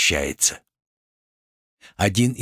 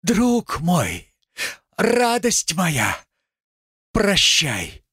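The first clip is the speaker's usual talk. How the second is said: a drawn-out farewell, higher; loud farewell; 11 semitones higher, much slower than usual. Acted. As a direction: call out your goodbye slowly. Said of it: "Громко".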